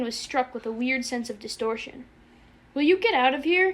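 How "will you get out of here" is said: high, loud, pleading question; desperate, exasperated plea; beseeching yelp. A narrator's reading. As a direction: yelp it, begging him. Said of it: "he yelped beseechingly".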